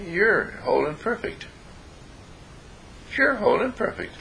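tender affirmation. Shown as a demonstration. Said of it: "And I say".

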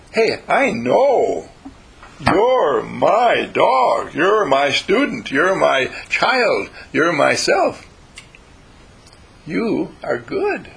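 slow, drawn-out loving reassurance; tender praise. Retold or imitated. Teacher reassuring dog and student, slow and tender. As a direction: speak slowly like to a beloved pet.

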